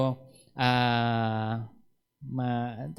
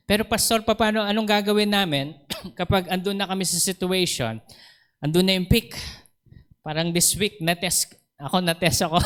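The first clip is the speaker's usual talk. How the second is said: congregant asking; 4 semitones higher, faster than usual. Retold or imitated. Voiced congregant asking pastor.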